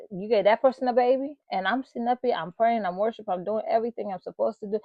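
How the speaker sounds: mildly worked-up grievance, rattled off fast; indignant complaint. Retold or imitated. Woman questioning God about others' babies, retold indignant complaint.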